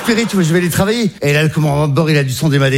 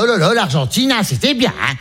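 mother's voice; 3 semitones higher than usual. Acted. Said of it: "Elle était là".

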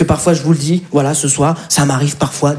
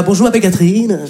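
Catherine phone persona. Pretend. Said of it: "je suis dans mon rôle".

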